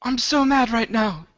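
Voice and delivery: high, fuming put-on voice; high indignant grumble; mad Sam voice. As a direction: pout it like furious Sam. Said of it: "the last words Sam said before he left the Throners in a rage".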